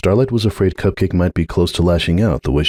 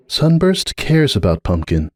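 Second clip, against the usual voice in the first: cautious statement; 6 semitones higher than usual. A narrator's reading. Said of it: "she stated cautiously".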